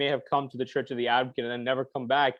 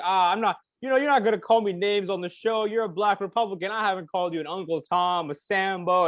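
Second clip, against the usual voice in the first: agitated; 5 semitones higher than usual. Retold or imitated. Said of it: "kind of agitated".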